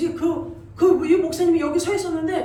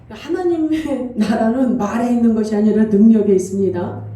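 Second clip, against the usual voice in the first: preaching burst; 4 semitones lower, 10 dB louder than usual. Acted. Quotes scripture as preacher.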